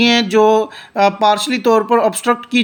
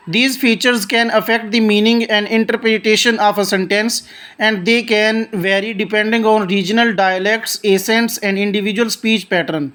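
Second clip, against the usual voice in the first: reads each English word slowly and deliberately; slow textbook reading; much slower than usual. Shown as a demonstration. Teacher reading the definition aloud to students, slow and deliberate. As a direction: read it out like a careful textbook recitation.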